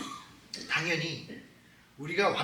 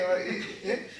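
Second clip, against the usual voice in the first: ordinary delivery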